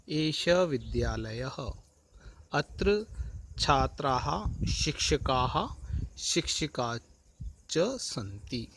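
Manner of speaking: slow, deliberate Sanskrit reading, each word given its full syllables like विद्यालयः; careful Sanskrit recitation. Shown as a demonstration. Teacher models pronunciation for class, slow careful recitation. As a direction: recite the Sanskrit line slowly so pupils can repeat it. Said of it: "सर्वप्रथम हम इसका उच्चारण करेंगे".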